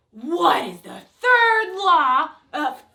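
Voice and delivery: growly monster recitation. Pretend. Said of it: "do a monster voice".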